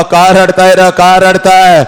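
mild acted yell; forceful father's rebuke. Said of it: "सगळ्यांना ओरडतो".

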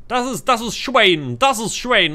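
put-on high, loud American accent in German; German spoken with a hammy American accent. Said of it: "warum habe ich jetzt einen amerikanischen Akzent".

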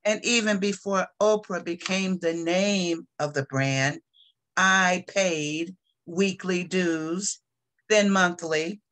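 measured poetry reading with frequent pauses; poem reading. Acted. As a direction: read your poem deliberately, phrase by phrase. Reads own poem aloud.

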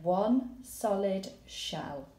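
slow read. Shown as a demonstration. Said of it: "So I've said".

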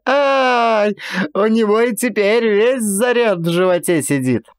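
high-pitched voice bubbling with laughter; laughing. A narrator's reading. Pavel Mitrich explaining to the narrator, laughing. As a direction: spill the words out through laughter. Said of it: "заливаясь смехом".

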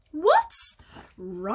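baffled goose asking a question; puzzled. Acted. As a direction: ask it in innocent confusion.

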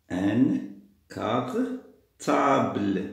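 "Un cartable" very slow, with gaps between the parts; syllable by syllable. Shown as a demonstration. Teacher sounding out "cartable" to find the missing syllable, drawn out. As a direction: stretch "cartable" out as "car... table". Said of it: "أنا خاصني un syllabe".

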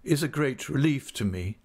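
dull, forced monotone. A narrator's reading. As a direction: say it dully, as if forced. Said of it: "in the same dull voice".

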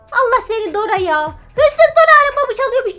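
mock scolding. Real, not acted. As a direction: tell off the thief, laughing. Scolding the thief Dora.

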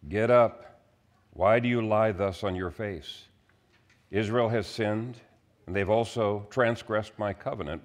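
measured, solemn Bible reading; scripture reading. Acted. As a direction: read the passage to the congregation. Reads scripture passage aloud.

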